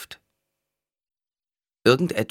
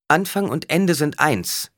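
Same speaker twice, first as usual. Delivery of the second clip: loud, high, slow proclamation; calling out; 10 semitones higher, 5 dB louder, slower than usual. A narrator's reading. Alia answers the roaring man, calling out. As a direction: cry it out like an oracle. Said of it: "rief Alia".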